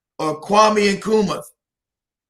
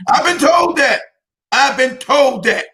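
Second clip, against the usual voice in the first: emphatic loud; 5 semitones higher, 4 dB louder, slower than usual. Real, not acted. Stressing a painful memory.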